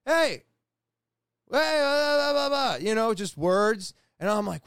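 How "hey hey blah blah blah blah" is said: high, loud heckling yell; mock yell, pitched way up; imitated yelling. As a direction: holler like the kid on the roof, trailing into blahs. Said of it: "and he's yelling".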